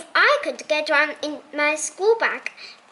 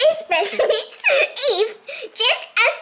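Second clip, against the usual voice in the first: giggling through the words, higher; can't hold back a laugh; 7 semitones higher, faster than usual. Real, not acted. Reader giggling about the scared gloves, laughing.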